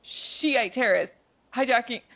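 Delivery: deliberate telegram-style phone message; slow short sentences. Retold or imitated. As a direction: imitate someone spelling out an urgent tip slowly. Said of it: "he's saying them so slowly".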